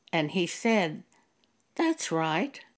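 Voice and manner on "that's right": put-on shameless, unashamed tone. Retelling how a class leader answered when told she was leaving, imitating a shameless tone. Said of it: "that's how he said it in that tone of voice".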